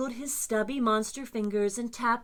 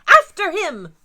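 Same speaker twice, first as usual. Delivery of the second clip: high, loud rallying shout; rally the trio to give chase; shouted command; 10 semitones higher, 15 dB louder than usual. Acted.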